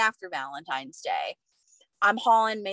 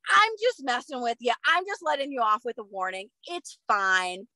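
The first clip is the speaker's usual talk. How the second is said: retold officer turning easygoing, pitched up then settling; sudden friendly flip; 3 semitones higher than usual. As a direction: play the cop suddenly dropping the stern act. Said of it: "completely flips".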